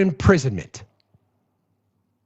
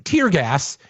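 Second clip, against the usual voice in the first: ordinary talk, nothing marked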